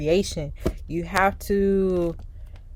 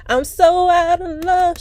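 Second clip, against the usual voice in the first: mock lovesick whine; 10 semitones higher, 4 dB louder, slower than usual. Voicing the lovesick figure again.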